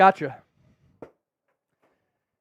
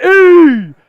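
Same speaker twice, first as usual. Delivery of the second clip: slow, loud letter-by-letter spelling; shouted spelling cheer; 5 semitones higher, 6 dB louder, much slower than usual. Real, not acted. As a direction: belt out each letter like a stadium chant.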